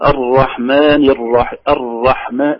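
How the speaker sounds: "الرحمن" with a moderate, lightly tapped r; slow recitation, r neither slack nor tight; light hidden trill. Shown as a demonstration. Teacher showing the middle way, subtle r in "الرحمن". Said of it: "في تكرار خفيف غير ظاهر".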